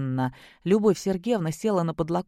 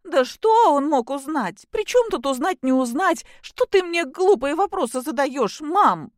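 angry snapping; 9 semitones higher, 6 dB louder than usual. A narrator's reading. Daughter snaps at mother.

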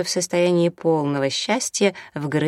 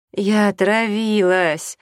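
slow, higher groaning complaint; moaning; 5 semitones higher, 4 dB louder, slower than usual. A narrator's reading. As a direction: moan it out slowly, feeling sick. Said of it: "стонала Татьяна". (стонущим голосом, медленно)

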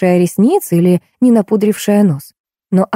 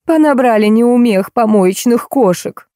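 high, slower scornful tirade; angry shouting after; 5 semitones higher, slower than usual. A narrator's reading. Actress rants after the fleeing newcomer, angry. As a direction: rail after someone who has fled. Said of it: "неслось вслед".

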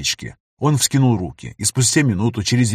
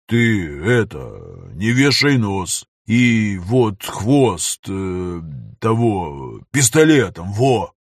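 encouraging troll; 3 semitones lower, much slower than usual. Acted. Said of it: "подбодрил друга тролль".

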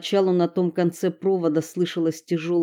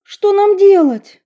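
put-on high, scared girl asking; panicky, pitched up; frightened; 13 semitones higher, 10 dB louder than usual. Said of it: "испуганно спросила Стелла".

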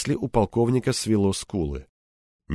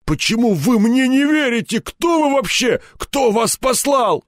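much higher, louder frantic pleading; terrified colonel near tears begging answers; panicked; 12 semitones higher, 4 dB louder than usual. Acted. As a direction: cry out in panic.

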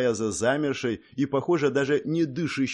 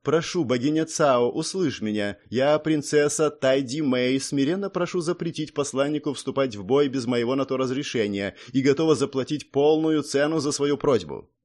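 solemn prayer; 3 semitones higher than usual. A narrator's reading. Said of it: "тут же серьёзно произнесла".

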